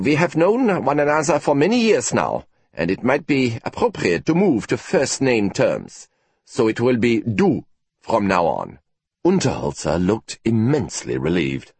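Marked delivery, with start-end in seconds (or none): 0.1-8.8 lightly voiced stiff professor, gracious; formal offer. Professor offering first name terms to colleague, measured and formal.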